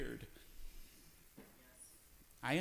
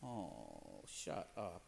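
grumpy retort; 13 semitones lower, 16 dB quieter, much slower than usual. Retold or imitated. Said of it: "It's like".

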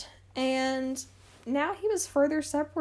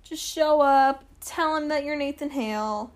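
a high, loud, breezy mock order; mock Washington; 4 semitones higher, 5 dB louder than usual. Mocking Washington sending Hale off, high and loud. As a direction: toss off the plan like it's obvious. He was like.

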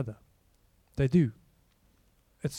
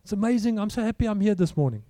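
mock chirpy optimism; 3 semitones higher than usual. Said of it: "Is it, it's".

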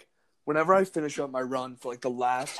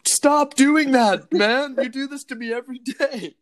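annoyed complaint; 9 semitones higher, 4 dB louder than usual. Retold or imitated. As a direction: lean on it like a fed-up neighbor. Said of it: "they're like".

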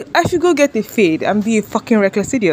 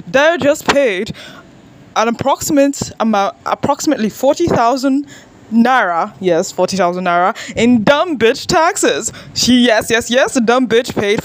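news anchor voice; 2 semitones higher than usual. Pretend. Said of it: "American news anchor voice".

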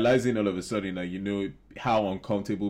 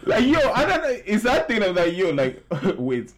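laughing; 10 semitones higher, 6 dB louder than usual. Real, not acted. Laughing disbelief at Trump.

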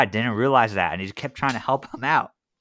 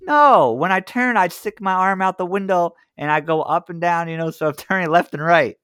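mock dumb caller; 4 semitones higher than usual. Friend plays dumb to salesman.

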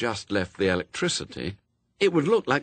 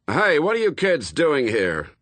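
loud, high challenge from a harassed officer; raised, not quite menacing voice; frayed, half-threatening; 5 semitones higher, 5 dB louder than usual. A narrator's reading. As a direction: call out at the end of your tether. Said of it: "wasn't a one hundred percent threatening voice".

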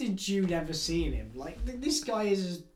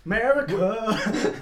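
loud, drawn-out hero cry; mock patriotic shout; 4 semitones higher, 7 dB louder, much slower than usual. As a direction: bellow it slowly as a parody. Mock patriotic shout for Mister Exposition.

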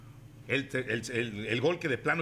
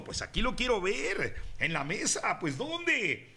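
playful complaining; 4 semitones higher than usual. Acted. Comic sponsor skit hunting snacks.

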